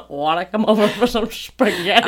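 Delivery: mock pickup line with a laugh. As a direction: giggle through the invitation. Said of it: "they were just like".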